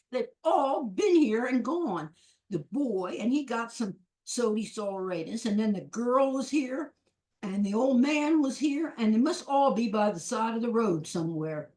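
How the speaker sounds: a hint of an exasperated shopkeeper, hitting each item on the list; storekeeper. Storekeeper tells old woman who has been by, lightly acted emphasis.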